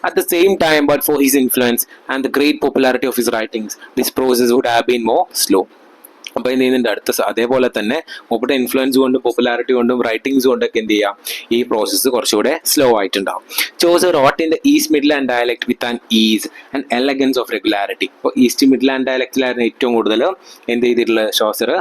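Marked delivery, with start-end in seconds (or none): 0.1-5.6 reading each word out very slowly, like dictation; slow textbook reading. Acted. Teacher dictating notes to students, very slowly. Reads English text aloud slowly. 13.8-18.1 reading each word out very slowly, like dictation; slow textbook reading. Acted. Teacher dictating notes to students, very slowly. Reads English text aloud slowly.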